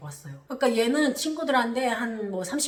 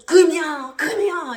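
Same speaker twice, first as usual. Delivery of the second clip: mock-weeping call, pitched higher; father crying out his daughter's name; re-enacted pleading cry; tearful calling; 6 semitones higher, 8 dB louder, slower than usual. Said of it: "울면서".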